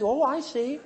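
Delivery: mild, accepting replies, a little high; unruffled. Acted. Sister-in-law answering a raging relative, unruffled. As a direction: take it all without getting upset. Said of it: "Never get upset".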